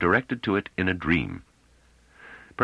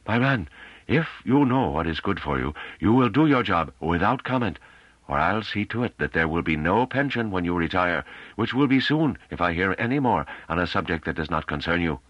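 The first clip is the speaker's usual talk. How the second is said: officious boss voice, somewhat raised in pitch; testy superior, threatening; 3 semitones higher than usual. Acted. Head threatening his underling's pension, stern and testy. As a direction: warn a subordinate off sternly.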